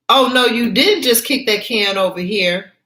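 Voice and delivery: a lightly voiced angry older woman; angry church lady. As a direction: scold her for the kicked can. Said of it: "the older woman said angrily".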